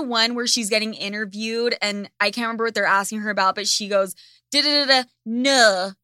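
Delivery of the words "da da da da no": put-on dab at a French accent, half-hearted; mock French accent. Imitating Bella Hadid's interview, mock French accent. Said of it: "Like, with a French accent".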